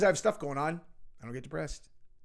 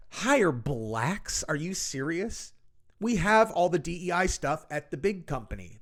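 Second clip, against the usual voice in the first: mock out-of-touch rich lady. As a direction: scoff like a snobbish rich woman. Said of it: "That's what these people sound like to me".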